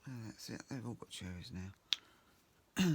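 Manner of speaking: hoarse, husky speaking voice; a slight croak in the voice; croaky voice. Real, not acted. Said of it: "excuse my voice".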